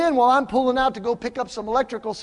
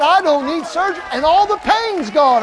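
high, loud, jubilant retelling; elated announcement; 9 semitones higher, 8 dB louder than usual. Retold or imitated. Young man tells pastor the pain is gone, elated announcement. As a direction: shout the good news, imitating the elated man.

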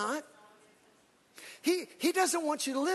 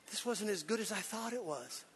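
deflated; 3 semitones lower, 11 dB quieter than usual. Retold or imitated. Disappointed at Cedar Point.

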